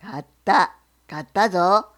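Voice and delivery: bear. Acted. Bear asks the fox what he sells, low and loud. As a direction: growl the question like a bear.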